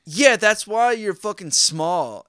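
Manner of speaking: mock-retold taunt from the coworker. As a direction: sneer it like the guy who insulted you. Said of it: "he's like".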